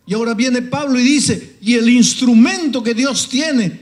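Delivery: high, loud, slow pleading sermon cry; preaching at full force. Acted. Preacher calling the congregation to repentance, loud high fervent cry. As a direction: call the sinner home at the top of your voice.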